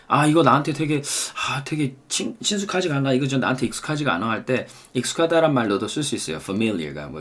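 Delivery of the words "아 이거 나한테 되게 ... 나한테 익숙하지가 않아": puzzled speaker. Acted.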